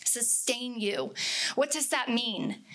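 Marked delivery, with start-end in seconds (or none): 0.0-1.1 "Sustain you" drawn out slowly and softly; slow, soft echo. Shown as a demonstration. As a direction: let "Sustain you" linger, slow and softer. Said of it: "kept hearing it over and over again".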